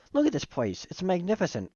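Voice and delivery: high, gushing delight; thrilled character seeing the arena; excited awe. Acted. Character marvels at the cooking arena.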